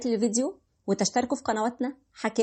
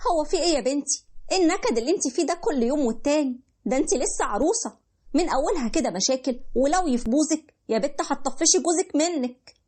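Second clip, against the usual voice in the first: a higher, nagging Egyptian mother; scolding mother; 3 semitones higher than usual. Acted. Mother scolding her newlywed daughter for complaining, nagging. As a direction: chide her daughter, impatient.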